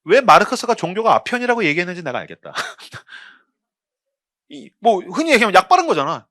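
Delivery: normal talking voice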